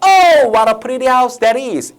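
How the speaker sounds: high, drawn-out cry of admiration; exclaiming. Acted. Grown-ups exclaim over the pretty house, acted amazement. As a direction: cry out in hammed-up wonder. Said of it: "하면서 소리칠까요?".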